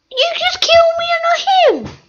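breathy whispered complaint. Real, not acted. Gamer just killed in the match, whispering a hurt complaint. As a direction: whisper it as if only the killer should hear.

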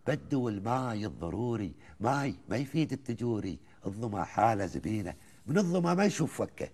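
chanted Gulf verse, rising and falling lines; poem recitation. Acted. Host listens as he recites the old poem, measured and rhythmic. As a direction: recite it like a folk poet to the host.

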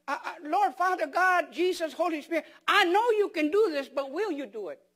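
mock doubting prayer. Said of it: "You sounded good".

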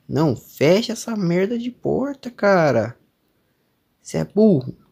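high, exasperated cry at the screen; frustrated yell. Real, not acted. Player yelling at his character to shut the door, high exasperated cry. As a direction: scold the dumb character, voice cracking high.

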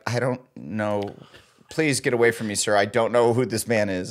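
low, halting mock denial; understated stonewalling of a stranger; undercover denial. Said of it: "stayed undercover and be like".

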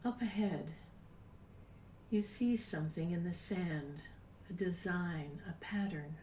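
soft guided meditation. Acted. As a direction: guide them gently into calm, breathy and unhurried. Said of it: "It's time to do a meditation".

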